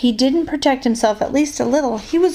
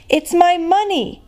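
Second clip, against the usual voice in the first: shouted; 8 semitones higher than usual. A narrator's reading. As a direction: shout it out from under the pillow. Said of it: "he shouted".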